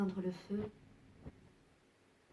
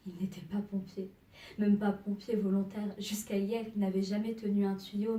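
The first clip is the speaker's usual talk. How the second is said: louder, urgent narration; emphatic insistence; 5 dB louder than usual. Acted. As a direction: press the point home loudly. Insisting on rescuer's inexperience. (insistance, voix forte)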